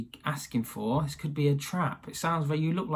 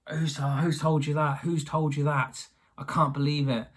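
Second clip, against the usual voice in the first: mock fury. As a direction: act mildly outraged at being found out. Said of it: "He's furious".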